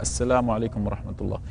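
calm, measured salam at a normal pace; unhurried greeting. Shown as a demonstration. Teacher showing students the proper salam, unhurried. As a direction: take your time with each word. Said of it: "بمعنى يسلم هكذا".

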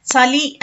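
చలి begun with a dental tsa; old pronunciation. Shown as a demonstration. Teacher showing how people once said it, చలి as tsali. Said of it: "అనేవాళ్ళు".

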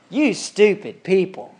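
slow, deliberate mock insult; scolding preacher. Preacher on Sunday morning insulting the congregation, slow and scornful. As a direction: pronounce it like a damning verdict. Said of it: "what if the preacher got up".

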